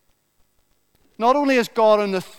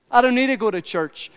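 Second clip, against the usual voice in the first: "I don't need to go to church" pitched higher in a mock voice; higher, mocking take on "I don't need to go to church"; mock voice of a skeptic; 5 semitones higher than usual. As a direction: mimic the churchgoer who can't be bothered. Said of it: "Many people say".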